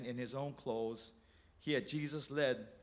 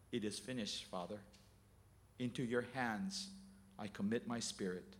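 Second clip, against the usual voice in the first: dying words; 5 semitones lower, 7 dB quieter than usual. Acted. Jesus dying on the cross.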